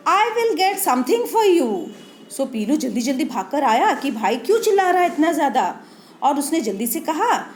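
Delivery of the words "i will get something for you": Pilu's eager line. Acted. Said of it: "पीलू said".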